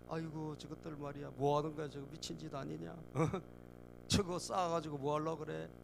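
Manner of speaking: understated acted sneer, starting soft; sarcastic scoffing. Bystander sneering at the people rebuilding the wall, sarcastic scoff. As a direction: belittle them in a muttered aside. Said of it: "그러면서 빈정거리고".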